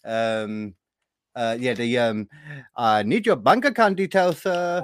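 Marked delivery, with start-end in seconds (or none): 2.8-4.8 hint of a put-on African accent; mock African accent. Feeding his co-host a scam-call line, in a mock African accent. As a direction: imitate a caller in an African accent. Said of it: "the one African accent you can do".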